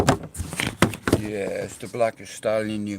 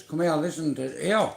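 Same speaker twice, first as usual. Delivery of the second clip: higher, coaxing call to a horse; 5 semitones higher, 4 dB louder than usual. Shown as a demonstration. Man calling a horse over, coaxing. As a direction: sweet-talk her over. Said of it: "Like that, look".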